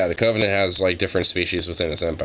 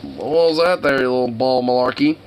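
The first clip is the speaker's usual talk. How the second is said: doggy talk; 5 semitones higher than usual. Real, not acted. Talking to his dog.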